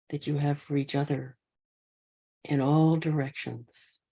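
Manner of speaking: unhurried loving-kindness guidance, spaced by long pauses; guided meditation. Real, not acted. Teacher wishing all beings safe and happy, guided meditation. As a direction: offer each wish gently and let it rest.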